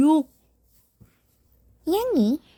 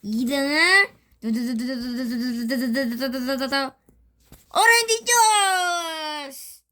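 hyped giveaway announcement. Acted. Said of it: "순위를 뽑아볼게요".

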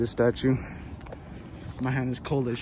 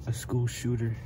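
horror movie victim. Pretend. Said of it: "pretend like I'm in a horror movie".

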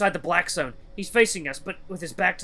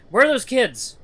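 urgent; 9 semitones higher, 9 dB louder than usual. Acted. Urgent demand.

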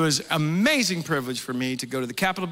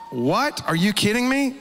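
rising, astonished; mock surprise; 4 semitones higher than usual. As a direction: play the disbelief big. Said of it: "I'm like".

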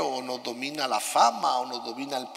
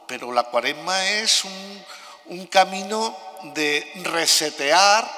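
cathedral echo. Real, not acted. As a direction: voice ringing in a big stone church. Homily recorded in a large church.

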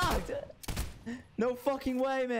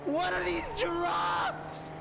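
raging gamer; 5 semitones higher than usual. Real, not acted. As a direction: vent about awful loot. Upset about bad loot.

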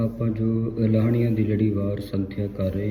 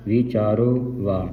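ਵਿਚਾਰੋ with full final o, then ਵਾ apart; slow ਵਿਚਾਰੋ, separate ਵਾ; split pronunciation. Shown as a demonstration. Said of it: "ਇਸ ਸੰਬੰਧਕ ਉਚਾਰਨ ਕਰਨਾ ਹੈ". (ਵਿਚਾਰੋ ਤੇ ਵਾ ਵੱਖ-ਵੱਖ ਬੋਲੋ)

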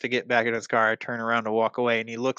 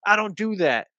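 high, louder offended protest; mock an offended man's high-pitched denial; mimicked indignant driver; 9 semitones higher, 3 dB louder than usual. Other driver acted out indignantly.

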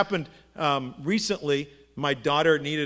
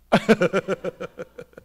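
stuttering laugh-like noise; staccato mock reaction noise; 4 dB louder than usual. Customer reacting to being interrupted, comic sputtering noise. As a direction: sputter it out in a quick pulse.

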